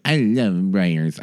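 low, lightly voiced star impression; a tentative, low-pitched commercial impression; Bernadette Peters. Podcaster attempting a star's yogurt ad, low sensual impression. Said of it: "I can't do an impression of her".

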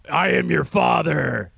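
slow, deliberate Vader delivery; Darth Vader line. Shown as a demonstration. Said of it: "it's a Darth Vader reference".

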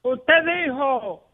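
slow, mock-indignant correction with stretched pauses; pedantic caller. Caller phones the host to correct a spelling, pedantic.

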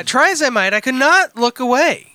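deliberate storytelling delivery, rising then dropping away; dramatic letter reading. Acted. Reading a crude missed-connection letter to co-hosts, mock-dramatic. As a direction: read it out with mock-serious drama.

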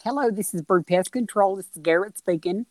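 lightly imitated Southern belle; mock Southern phone greeting, lightly put on; a hint of a Southern belle; Garrett's Southern belle voice. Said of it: "He affects a Southern accent".

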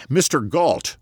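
high, urgent call; shouted. Acted. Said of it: "he shouted".

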